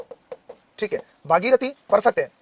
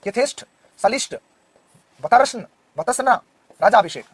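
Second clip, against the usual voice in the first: slow reading. Shown as a demonstration. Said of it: "reading options slowly".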